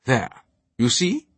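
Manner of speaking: mild, drawn-out British snap; snapping. A narrator's reading. Knight proving his point to altar boy, snapping. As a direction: make the point with lofty irritation. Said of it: "the man on crutches snapped".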